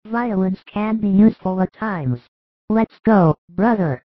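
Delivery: rally for a fight, indignant and eager; angry John. A narrator's reading. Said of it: "and angry as he is".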